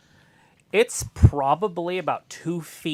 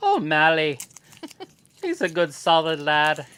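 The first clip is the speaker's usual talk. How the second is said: mock Irish accent; 5 dB louder than usual. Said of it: "am I turning Scottish there".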